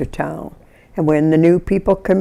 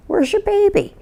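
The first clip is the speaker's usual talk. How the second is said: retold alarm. Alarmed question to screaming mother.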